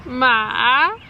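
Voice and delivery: ma dipping down then rising; third tone ma. Shown as a demonstration. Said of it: "so it goes down and then up higher".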